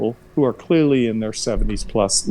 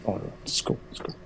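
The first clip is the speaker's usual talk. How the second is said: breezy dismissive fade; 7 dB quieter, much faster than usual. Retold or imitated. Son waving off his mom.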